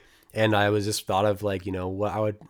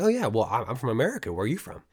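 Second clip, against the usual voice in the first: lightly acted eager friendliness; mildly over-keen newcomer making a friend; eager, puppyish friendliness. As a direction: chirp it lightly, like a friendly dog. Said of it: "kinda like a dog being like".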